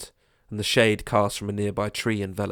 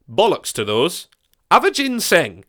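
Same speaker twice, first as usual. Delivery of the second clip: scoffing neighbour; 8 semitones higher, 6 dB louder than usual. Acted. Neighbour arguing teas.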